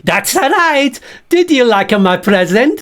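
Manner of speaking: smug agreement as the bag; Bert voice. Acted. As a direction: puppet boasting to the host. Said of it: "This is Bert the Bag".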